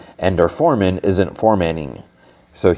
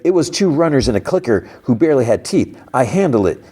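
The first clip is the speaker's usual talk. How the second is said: higher-pitched indignant comeback; mad retort; 6 semitones higher than usual. Retold or imitated. She defends her last run after being called reckless, acted indignation. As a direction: imitate her arguing back, pitch pushed up. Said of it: "then she gets mad".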